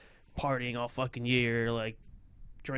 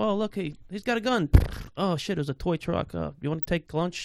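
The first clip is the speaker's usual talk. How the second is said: higher, louder mocking voice of soldiers, careless about a toy; 6 semitones higher, 5 dB louder than usual. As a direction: jeer at them as callous shooters. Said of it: "And they go".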